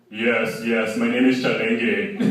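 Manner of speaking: weary giving up, saying "Chalenge" as chal-ENG-gay; just accept the wrong name, tired; resigned. Retold or imitated. Friend tired of correcting partygoers, resigned. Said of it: "He's like".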